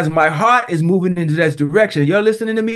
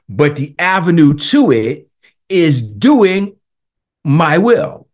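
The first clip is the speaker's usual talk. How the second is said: God's voice, slow; 4 semitones lower, slower than usual. Retold or imitated. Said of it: "He said this to me".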